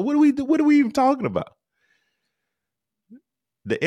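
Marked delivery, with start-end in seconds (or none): 0.0-1.5 high, fast, disbelieving; exasperated, what are we even saying; incredulous outburst. Real, not acted. Outraged at the "not the South" claim.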